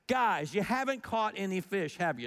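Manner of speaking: teasing, a little needling; a bit of a dig. Shown as a demonstration. Jesus teases the fishermen, mild dig. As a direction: needle them lightly. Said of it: "It's kind of a dig".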